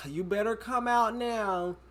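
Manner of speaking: a cop at the door warning an intruder, mock-stern and slow; unserious cop. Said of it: "he was like".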